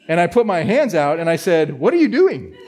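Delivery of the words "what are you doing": sharp high shout at a driver; startled shout. Retold or imitated. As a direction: yell it as the car comes at you. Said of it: "I think I did that just like that".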